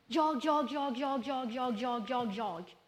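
hammed-up whiny chant of jag; mimat jag-tjat. Upprepar jag som parodi. (härmat gnälligt jag-tjat)

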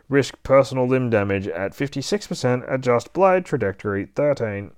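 a hint of a robot voice; robot readout. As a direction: recite the warning like a machine. Robot calculates risk and trajectory.

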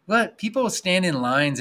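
a high, loud what; mock disbelief that nobody sees it; incredulous. Real, not acted. Marvelling to the host about chairlifts, incredulous.

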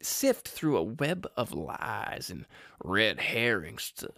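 "Everyone in the wildly dysfunctional Thrombey family" read in a slow southern drawl; lightly imitated southern detective drawl. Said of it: "That's how he talks".

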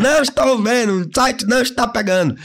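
hammed-up helpless customer; whiny customer. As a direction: play the clueless customer whining. Imitating a customer who can't see the link.

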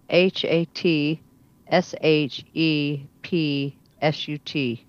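letter by letter, slowly; spelling it out. Shown as a demonstration. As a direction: spell each letter out clearly. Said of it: "let me spell it for you".

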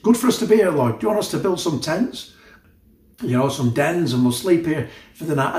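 an overexcited disciple blurting out plans; babbling Peter. Retold or imitated. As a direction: play Peter rushing to fill the silence. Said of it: "so Mortimer just started talking".

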